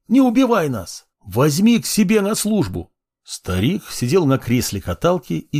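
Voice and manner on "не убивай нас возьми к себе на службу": high, desperate plea; begging in fear. Acted. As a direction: wail for mercy. Slaves beg for their lives.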